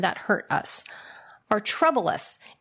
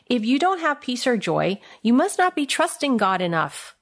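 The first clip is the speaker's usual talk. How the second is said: quoting a myth; 4 semitones higher than usual. Retold or imitated. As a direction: quote the saying at face value, a little raised. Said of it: "here's a second myth".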